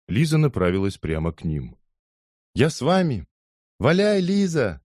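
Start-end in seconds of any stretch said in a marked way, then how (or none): 2.5-3.3 eager call. Acted. Liza wants to join cricket. 3.8-4.8 put-on high, slow cheerful cry of the boys; joyful welcome. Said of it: "полдюжины радостных голосов".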